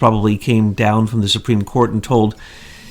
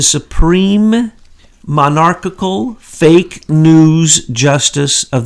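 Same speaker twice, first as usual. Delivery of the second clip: mocking title; 3 semitones higher, much slower than usual. Real, not acted. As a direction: stretch "supreme" out in scornful mock awe. Mocking Chief Justice Roberts' title.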